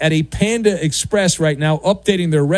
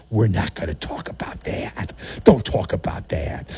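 low, soft, secretive hush; conspiratorial mock whisper; 11 semitones lower, 5 dB quieter than usual. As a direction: whisper it like a cover-up. Mock team media hushing it.

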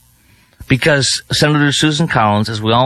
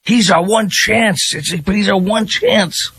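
higher, slower, hammed-up hopeful plea; mock excited Democrat; 8 semitones higher than usual. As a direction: play a desperate party booster. Mimics Democrats hyping candidate.

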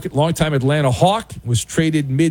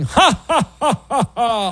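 staccato high mock cackle; mock laughing; 6 semitones higher than usual. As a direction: act out a gloating "ha, ha, ha". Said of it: "he'll end up laughing".

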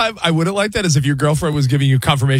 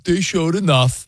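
flat, slow delivery; slower than usual. Shown as a demonstration. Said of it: "you're delivering it like".

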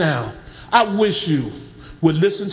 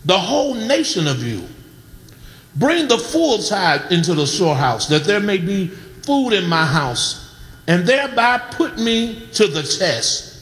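measured reading with long pauses between phrases; scripture reading. Acted. Preacher reads God's rebuke and promise to the congregation, measured scripture reading. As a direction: read the verses out solemnly, phrase by phrase.

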